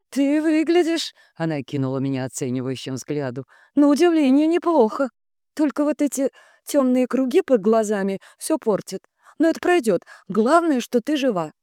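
sugary sister. A narrator's reading. Sister sweet, patronizing.

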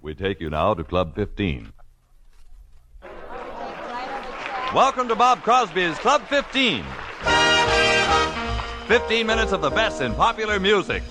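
put-on old recording. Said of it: "our last recording from nineteen forty-seven".

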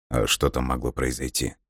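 quiet, faked innocent surprise; feigned surprise. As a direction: play dumb, softly. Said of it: "Дмитрий деланно удивился".

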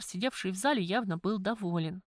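usual speaking voice

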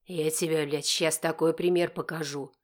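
mild yell. Acted. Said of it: "орёт он не своим голосом".

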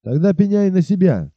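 roaring. Acted. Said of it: "заревел он".

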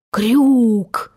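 drawn-out hail; calling out. A narrator's reading. Hook hails the unseen impostor, calling out. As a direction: call the name across the water. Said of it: "закричал он".

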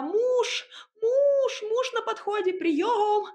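намного выше, кричит; зовёт мужа на помощь; отчаянный крик. A narrator's reading. Героиня вопит о помощи. (крик, намного выше)

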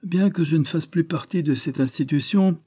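high, measured, self-important declaration; near-majestic. A narrator's reading. Former policeman answering the crowd, near-majestic. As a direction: speak pompously, with majesty. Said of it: "d'un ton quasi majestueux".

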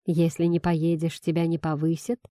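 usual speaking voice

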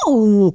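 small pained exclamation; pained yelp. A narrator's reading. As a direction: cry out briefly as if pinched. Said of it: "jajdult fel Cecily".

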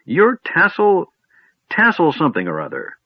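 put-on high, fussy old wizard; lightly voiced doddering old man.

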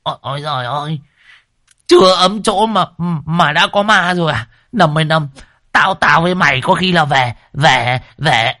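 high, panicky stammering yelp; frightened howl. A narrator's reading. Old man howling in terror at the ghost. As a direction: stumble over words in fright. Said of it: "Đồng già nó rú lên".

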